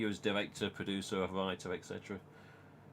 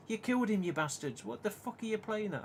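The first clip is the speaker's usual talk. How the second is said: retold anger; 8 semitones higher than usual. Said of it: "I was mad".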